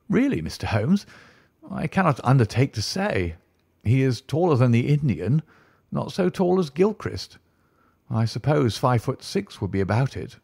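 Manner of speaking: a hint of a fussy don unsure of the answer; lightly voiced anxious tutor; flustered tutor. Soames voiced by narrator.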